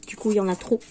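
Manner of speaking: talking through hiccups; words broken by small hiccups. Real, not acted. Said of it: "j'ai le hoquet".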